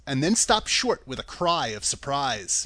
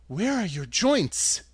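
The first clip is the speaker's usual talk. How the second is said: anxiously; 4 semitones higher, slower than usual. Acted. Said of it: "asked anxiously".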